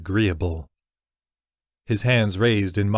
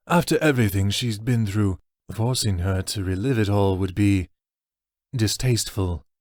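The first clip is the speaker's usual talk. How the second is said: regretful orc elder. Acted. Tagathis voiced, protective.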